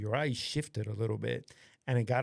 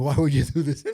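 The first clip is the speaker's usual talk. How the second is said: laughing exasperated; 3 semitones higher, 10 dB louder than usual. Retold or imitated. Girlfriend quoted while laughing.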